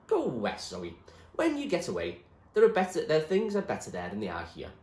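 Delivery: William, urging. Acted. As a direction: urge her to go west. William urges her west.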